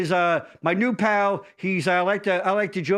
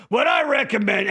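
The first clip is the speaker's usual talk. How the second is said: mock Jason voice; 4 semitones higher, 3 dB louder than usual. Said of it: "I'm gonna do your voice now".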